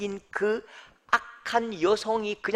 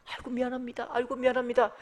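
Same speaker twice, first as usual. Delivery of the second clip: higher, lightly hurried apology; mock apologetic staff; 6 semitones higher, faster than usual. School staff answers the angry caller, imitated as meekly apologetic. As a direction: imitate someone meekly saying sorry.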